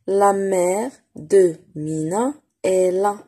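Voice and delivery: "La mère de Mina est là" stretched slowly; drawn out for beginners; very slow reading. Shown as a demonstration. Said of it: "reading model for pupils".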